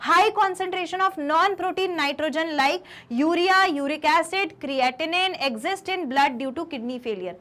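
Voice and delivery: slow, even dictation of a definition; slow note dictation. Shown as a demonstration. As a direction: read the definition for copying. (परिभाषा धीरे-धीरे लिखवाना)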